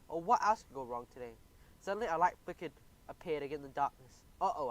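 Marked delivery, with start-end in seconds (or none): 0.1-1.3 whining complaint; whiny. Acted. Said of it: "I whined". 4.4-4.7 nervous gulp. Acted. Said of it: "I gulped".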